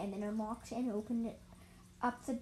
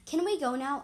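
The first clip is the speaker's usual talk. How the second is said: curious; 4 semitones higher, 8 dB louder than usual. Acted. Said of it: "asked curiously".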